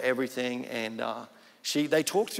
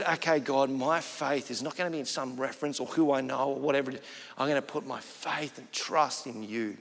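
lower, softer prayer of surrender; quiet resolve; 3 semitones lower, 5 dB quieter than usual. Retold or imitated. Man surrendering to God in prayer, quiet resolve.

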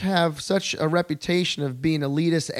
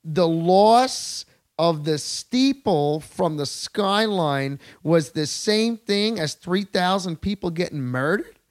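incredulous outrage; 3 semitones higher, slower than usual. Retold or imitated. To the expat, a slow outraged challenge. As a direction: spell out each word in outrage. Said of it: "in your bullshit acquired French accent".

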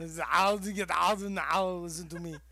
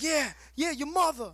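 high, louder taunt; mocking the kid; 11 semitones higher, 6 dB louder than usual. Cohost mimicking the kid's taunt in a high voice. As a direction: sneer it like a cocky kid. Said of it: "Kid was like".

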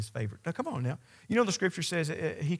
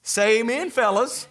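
loud, high call for an amen; rally the men in the pews; loud preacher's call for a response; 8 semitones higher, 7 dB louder than usual. Real, not acted. Preacher calls on the congregation.

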